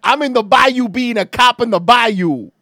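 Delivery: loud, slow mock Seagal cop; mock movie cop.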